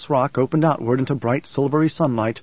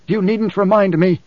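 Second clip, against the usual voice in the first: higher-pitched irritated snarl; 6 semitones higher, 4 dB louder than usual. A narrator's reading. Idaho retorts to Jessica about Alia, snarled. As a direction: snarl back, stung by the reminder. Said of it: "he snarled".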